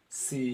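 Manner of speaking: सी with a long, held "ee"; teacher showing the long "ee" in सी; long ee sound. Shown as a demonstration. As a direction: draw out the vowel of सी. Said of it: "वॾी ई जो आवाज़ अची वियो".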